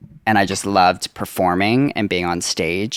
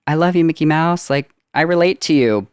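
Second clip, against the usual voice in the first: higher-pitched gushing fan quote; 9 semitones higher, 4 dB louder than usual. Acted. Fan speaking to Mickey Mouse, high and gushing. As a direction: put on a high, adoring fan voice. Acting out a fan's words.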